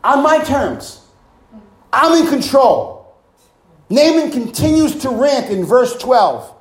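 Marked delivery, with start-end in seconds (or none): 0.0-3.2 proud claim. Retold or imitated. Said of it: "He was saying".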